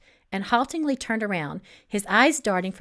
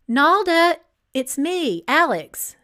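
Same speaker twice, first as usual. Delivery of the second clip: calling through door; 6 semitones higher, 7 dB louder, slower than usual. Acted.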